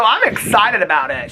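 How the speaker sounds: bright, high and loud excitement; retelling her own eager reply, high and loud; excited. Retold or imitated. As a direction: gush about the reading. Telling friend she's excited.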